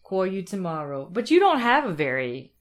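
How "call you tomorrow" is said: echoed New York AW on "Call"; mimicked New York accent. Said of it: "Anything that has that sound".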